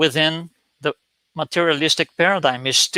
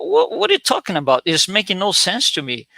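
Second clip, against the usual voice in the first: high, incredulous what are you talking about; baffled disbelief; 4 semitones higher than usual. Retold or imitated. Baffled coffee companion questioning the friend, high incredulous voice. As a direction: pitch it up in bewildered disbelief.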